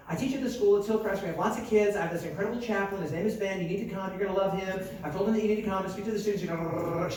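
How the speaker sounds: short eager pitches run on one after another; a touch of keen recruiter; enthusiastic nagging. Retold or imitated. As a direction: lightly imitate an eager, persistent church lady. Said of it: "she's enthusiastic".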